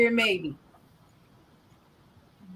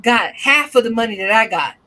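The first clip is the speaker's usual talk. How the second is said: scolding godson; 7 dB louder than usual. Retold or imitated. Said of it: "I said".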